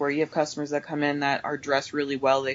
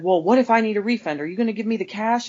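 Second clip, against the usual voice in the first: higher, louder indignant questioning; imitated demanding customer; 6 semitones higher, 4 dB louder, faster than usual. Customer demanding a cash refund, mock indignation. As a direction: press the cashier in a mock-irate voice.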